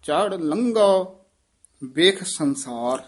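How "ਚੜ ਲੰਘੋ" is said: ਲੰਘੋ with a clear, firm ਘ sound; teacher drills ਲੰਘੋ for the student with a firm ਘ. Shown as a demonstration. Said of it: "ਘੱਗਾ ਬੋਲਣਾ ਹੈ".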